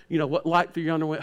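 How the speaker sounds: a hint of folksy Andy Griffith. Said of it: "I was more like Andy Griffith".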